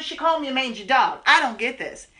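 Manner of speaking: indignant. Acted. Complaining to the doctor.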